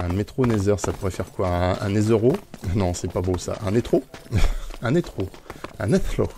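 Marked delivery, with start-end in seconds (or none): 5.8-6.3 NETHRO with an English "th"; French speaker attempting English pronunciation; English accent. Shown as a demonstration. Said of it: "en anglais".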